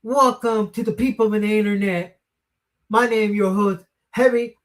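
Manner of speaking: fast, high hype promo voice; wrestling promo. Pretend. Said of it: "I should do that in my voice".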